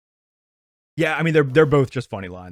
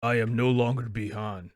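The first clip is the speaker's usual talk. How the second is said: mocking cheesy line; 6 semitones lower, 6 dB quieter, slower than usual. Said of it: "a much better delivery than".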